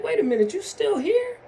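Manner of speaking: put-on "you're still here?" surprise; mock disbelief. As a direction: act out a taken-aback double take. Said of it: "And you like".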